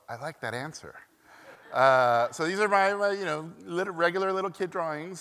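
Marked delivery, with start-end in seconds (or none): 0.1-0.9 smiling. Retold or imitated. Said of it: "my dad would smile and go".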